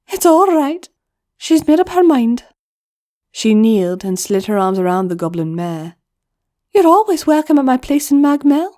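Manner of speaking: comforting friend to a grieving goblin; Mael's voice. Acted. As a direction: settle the matter kindly. Mael comforts Twig.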